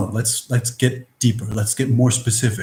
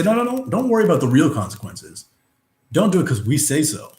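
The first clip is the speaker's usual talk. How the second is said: higher, quick dismissive authority; mock rule-maker; 4 semitones higher, faster than usual. Rule-makers waving away real consequences, mildly mocking authority. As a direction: brush off objections in a raised, hurried voice. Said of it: "a measurement, and say".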